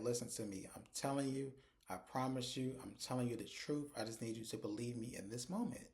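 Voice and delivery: softly insistent, mildly pleading; retold earnest plea. Accused man begs Hunter to believe him, retold as soft earnest plea. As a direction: drop the volume and press sincerely, lightly acted.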